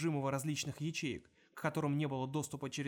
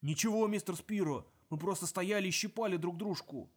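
dim-witted thug; 3 semitones higher than usual. Acted. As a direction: answer like a dull henchman. Thug answers, voiced differently.

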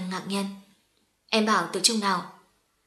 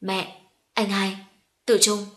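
slow glad call, last name louder; joyful cry; 4 dB louder, slower than usual. A narrator's reading. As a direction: cry out their names in joy. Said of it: "Mận Nghi đã reo lên". (reo lên vui mừng)

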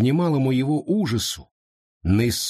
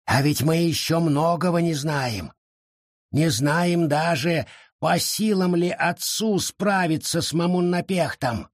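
anxious; 7 semitones higher than usual. Acted. Forest warns of unknowns.

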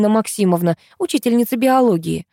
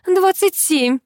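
giggling; 11 semitones higher, slower than usual. Acted. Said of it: "хихикнула я".

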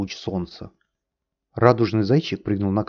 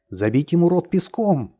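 raised roaring cry, higher; 9 semitones higher than usual. A narrator's reading. Samum calling for sand in the prisoner's mouth, roaring. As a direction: bellow it with fury. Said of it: "взревел Самум".

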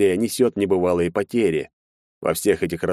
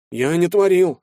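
panicked denial; 11 semitones higher, 4 dB louder than usual. A narrator's reading. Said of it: "совсем уже паник парень".

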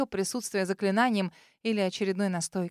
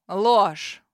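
louder, one furious word; furious shout; 6 dB louder than usual. A narrator's reading. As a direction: bark it in rage. Dragon rejects her lie.

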